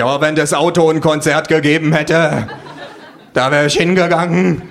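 scornful. A narrator's reading. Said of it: "sag ich verächtlich".

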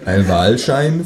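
slow, puzzled question back; incredulous echo. Acted. Narrator echoing the kangaroo, slow and baffled. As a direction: repeat it slowly, baffled. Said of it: "frage ich".

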